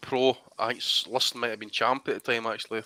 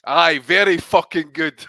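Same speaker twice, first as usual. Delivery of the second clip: slow, loud Scottish dad bellow; mock roar; 3 semitones higher, 8 dB louder, slower than usual. Son retelling his dad's outburst, slow loud roar. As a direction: let it rip like an angry dad on a plane. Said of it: "all you hear is this fucking roar".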